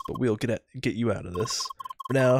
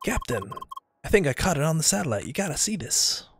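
put-on high girl voice; 7 semitones higher than usual.

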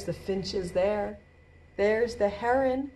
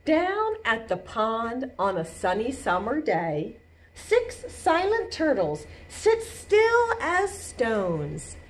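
measured storybook read, slowing down; slow picture-book narration; reading to children; slower than usual. A narrator's reading. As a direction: read slowly, lifting the key words. Reads picture book aloud.

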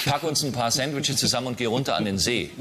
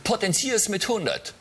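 high daughter voice; 6 semitones higher than usual. Acted. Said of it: "Ich unterscheide es stimmlich ein bisschen".

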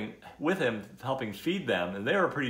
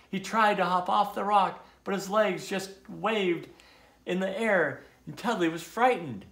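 raised, suspenseful storybook telling; lively children's story reader; animated story narration; 5 semitones higher, 3 dB louder than usual. A narrator's reading. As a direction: read the mishap aloud to children with drama.

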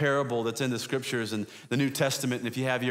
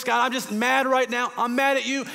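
much higher, louder, frustrated outburst at God; angry prayer; 8 semitones higher, 4 dB louder than usual. Shown as a demonstration. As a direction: let it out like you're mad at God. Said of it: "God can handle your angry voice".

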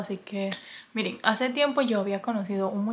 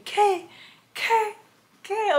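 squeaky, much higher what what what; shocked what; 11 semitones higher, much slower than usual. Retold or imitated. Retelling her shock at the boyfriend's photo, high squeaks. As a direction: replay the shock of seeing the photo, voice jumping up. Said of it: "O sea, yo dije".

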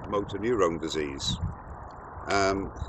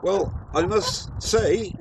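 in ice cold water; 8 semitones higher, 5 dB louder, slower than usual. Real, not acted. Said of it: "a lot colder than I thought".

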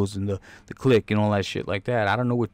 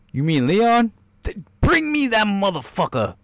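mock boss voice; 9 semitones higher, 3 dB louder than usual. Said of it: "voicing guard and boss".

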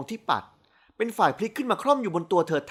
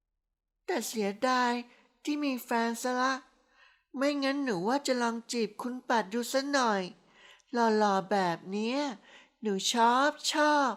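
put-on high, slow, soft drunk girl gushing; dreamy tipsy praise, drawn out; 5 semitones higher, 4 dB quieter than usual.

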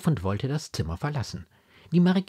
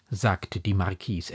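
ordinary delivery, nothing marked

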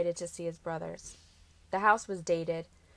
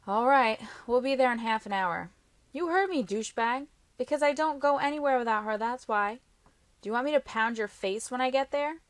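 raised, louder voice, arguing down the phone; mock-threaten a brother, higher and forceful; irritated; 6 semitones higher, 5 dB louder than usual. A narrator's reading. Boyfriend snapping at his brother on the phone, irritated.

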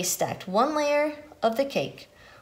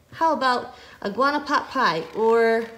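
louder, acted indignant comeback; indignant retort; 4 dB louder than usual. Pig hitting back at Iguana and Turtle, indignant retort.

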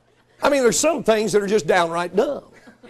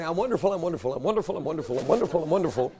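mock self-affirmation; 3 semitones lower, 6 dB quieter, faster than usual. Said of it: "you can say".

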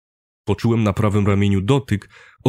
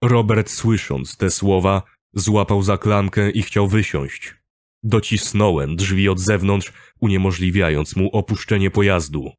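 ordinary delivery, nothing marked

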